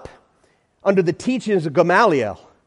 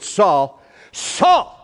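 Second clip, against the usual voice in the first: voice from heaven. Acted. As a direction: call out to Saul from above. God calling Saul from heaven.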